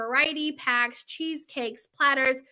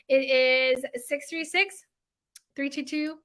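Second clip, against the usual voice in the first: hesitant number; slower than usual. Real, not acted. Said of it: "I'm panicking".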